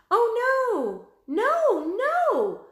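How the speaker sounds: high, loud panicked shout. A narrator's reading. Annie shouting to the wildebeest. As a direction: yell it out in alarm. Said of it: "shouted Annie".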